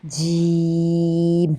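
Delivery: جیم said with the teeth gently closed; teeth lightly together. Shown as a demonstration. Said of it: "دونوں دانت آپ نے ہلکے سے جوڑ کے".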